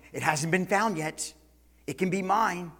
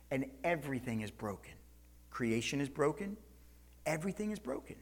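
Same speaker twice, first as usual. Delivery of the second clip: much softer, heavy lament; somber hush; 10 dB quieter than usual. Acted. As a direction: let it fall quiet and heavy. Somber repeated lament on brokenness.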